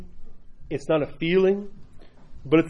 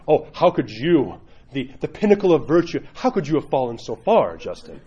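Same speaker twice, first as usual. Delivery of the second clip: mock astonishment. Priest puncturing a penitent's ego, mock shock. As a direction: tease with exaggerated dismay.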